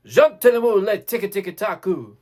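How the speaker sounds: strong, full-volume demo chant; forte fortissimo. Shown as a demonstration. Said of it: "Forte, fortissimo".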